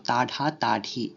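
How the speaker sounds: তাঢা তাঢি with a breathy ঢ; wrong aspirated form. Shown as a demonstration. Teacher to students, showing the wrong aspirated ঢ. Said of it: "আবার যদি ঢ বসাই".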